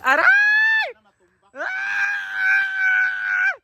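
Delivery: high yelping shouts of pain; crying out in pain. Real, not acted. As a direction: yelp it out, high and loud. Playful scuffle, crying out.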